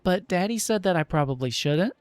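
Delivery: put-on high, fast, chattering child; little girl voice. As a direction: babble it like a proud kid. Child explains and invites them in.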